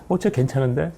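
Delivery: lightly acted "oh, not bad" reaction; mildly impressed surprise. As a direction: act out a casual, approving double take. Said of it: "이게 아니라는 얘기예요".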